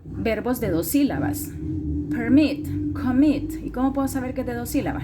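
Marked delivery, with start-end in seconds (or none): 2.1-3.5 "Permit, commit" said loud, weight on -MIT; stress on second syllable. Shown as a demonstration. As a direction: pronounce "Permit, commit" to show two syllables, the second stronger. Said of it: "Lo tengo que pronunciar".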